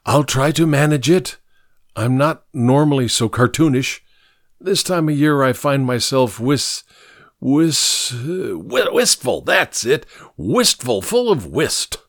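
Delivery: lightly voiced, cartoonish old drunkard; a hint of theatrical tipsiness; tipsy old scrounger. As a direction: fumble for the word like a drunk.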